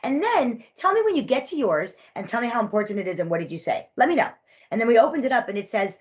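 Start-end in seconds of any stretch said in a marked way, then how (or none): 0.0-4.3 sarcastic sweetness. Retold or imitated. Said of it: "And I said".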